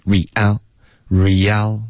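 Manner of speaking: "real" joined with no gap after re; linked sounds. Shown as a demonstration. Teacher models for student, seamless "real". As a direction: glide straight from ree into al in "real". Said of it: "记得要连读".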